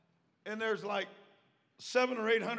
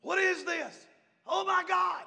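mild mock scream, pitched up; retold scream; 8 semitones higher, 4 dB louder than usual. Missionaries radioing the preacher in panic, a mildly mocked scream. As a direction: imitate missionaries screaming in astonishment, without full volume. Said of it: "Missionaries are screaming".

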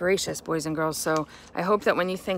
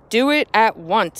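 firm command; 3 semitones higher, 5 dB louder than usual. Acted. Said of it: "said the rabbi".

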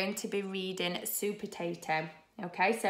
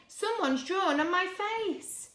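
high, slow storybook wail; upset cry; 11 semitones higher than usual. Acted. Broccoli telling of its defaced face, upset cry. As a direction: complain in a high, drawn-out voice. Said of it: "cried Broccoli".

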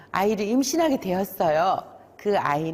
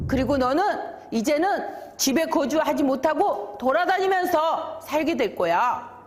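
higher, emphatic acted sentence; pronouncing punishment; 5 semitones higher than usual. God sentencing Cain to wander, emphatic raised-pitch pronouncement. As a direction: lay down the penalty emphatically.

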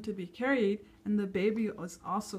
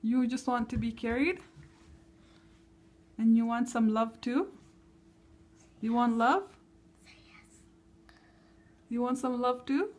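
tender coaxing. Real, not acted. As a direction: coax the little one gently. Coaxing upset toddler.

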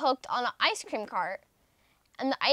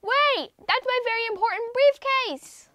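high, loud bellow; 11 semitones higher, 5 dB louder than usual. Acted. Mister Brown bellows after the bus, loud bellow. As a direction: bellow with all he has. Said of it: "bellowed Mister Brown".

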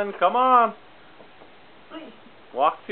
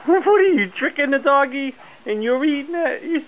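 amused surprise; 7 semitones higher than usual. Real, not acted. Dad amused by toddler.

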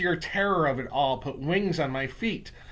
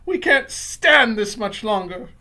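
high, loud witches crying out at a stink; high-pitched, loud complaint; disgusted cries; 10 semitones higher, 9 dB louder, slower than usual. Acted. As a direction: wail it in revulsion. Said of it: "there were cries of".

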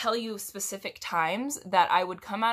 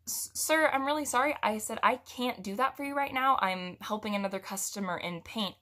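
nervous apology; 2 semitones higher than usual. Retold or imitated. Nervous cashier apologizing to customer.

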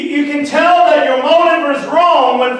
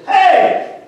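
higher-pitched calling-out "hey"; a drawn-out, raised-pitch hail; yelled call; 4 semitones higher than usual. Retold or imitated. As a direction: call out like an angel hailing someone. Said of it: "I believe he had to yell".

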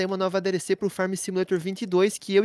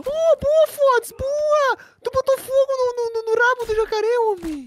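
high, loud excited cheering; 14 semitones higher, 4 dB louder, slower than usual. Real, not acted. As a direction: celebrate the hit on the gator. Comemora fogo no jacaré. (comemoração empolgada e aguda)

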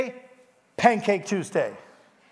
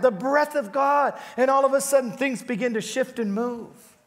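building preaching; 5 semitones higher than usual. Real, not acted. Preacher builds to fervent praise of the Holy Spirit. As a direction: lift the room with rising fervor.

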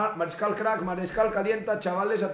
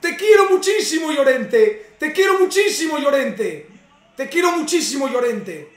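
much higher and louder, screaming with joy and a laugh; ecstatic shout; 6 semitones higher, 8 dB louder than usual. Real, not acted. Fan screaming thanks at Llorente after the save, ecstatic shout. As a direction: bellow your love at the hero who saved you.

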